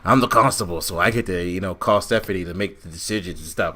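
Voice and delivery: imitating Corbin. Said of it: "Baron Corbin comes out of nowhere".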